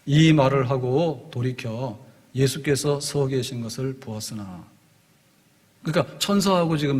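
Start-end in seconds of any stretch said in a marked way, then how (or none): 0.0-4.6 slow, measured reading of the verse; slow solemn verse reading; scripture reading. Shown as a demonstration. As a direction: read the Bible line deliberately. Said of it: "십사 절에 이렇게 말합니다".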